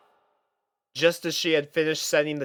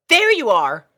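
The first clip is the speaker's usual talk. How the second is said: loud, high relieved shout; eager tomboy filly; exclaimed; 9 semitones higher, 8 dB louder than usual. Acted. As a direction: call out to a late friend. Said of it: "Scootaloo exclaimed".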